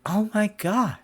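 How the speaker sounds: imitating an appalled juror; stunned juror. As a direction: play a juror shocked by the evidence. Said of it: "really make people like".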